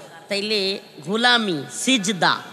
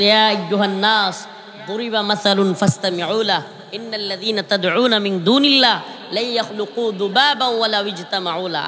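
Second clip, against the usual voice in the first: Quran recitation. Acted. Quotes Quran verse in recitation.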